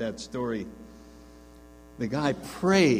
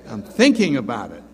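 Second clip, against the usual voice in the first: a light, louder Jack Benny-style hesitation; 7 dB louder than usual. Retold or imitated. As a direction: lightly imitate Jack Benny stalling for time. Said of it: "like Jack Benny".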